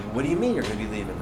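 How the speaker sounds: low, hushed, rushed question; taken aback. Retold or imitated. Two bosses hearing he is leaving, hushed disbelief. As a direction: imitate a muted, hurried double take.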